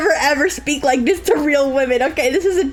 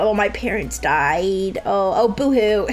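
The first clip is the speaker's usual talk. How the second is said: mock sob story; 6 semitones lower than usual. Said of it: "her whole tragic backstory".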